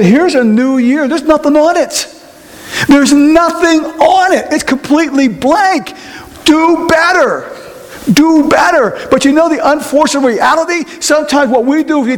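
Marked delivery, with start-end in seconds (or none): 0.0-9.0 high-pitched, emphatic urging; preacher voicing God, pitched high; emphatic encouragement. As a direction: hand over a fresh start with drawn-out emphasis. God hands over a new year.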